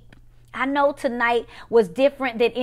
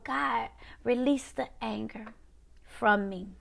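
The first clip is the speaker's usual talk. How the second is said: release prayer; 5 dB quieter than usual. Acted. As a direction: let each phrase down softly, with pauses.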